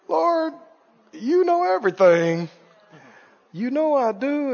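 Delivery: soft, subdued acted reply; humbled pleading. Peter answering the Lord the third time, humbled and soft. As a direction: answer softly, as a hurting disciple.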